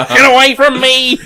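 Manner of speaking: high laughing yell; shouting. Retold or imitated. Retold TV character shouting.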